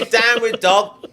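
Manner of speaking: slow hammed-up northern English; gruff English instructor; English yoga teacher. Mocking a Liverpool yoga class, English accent.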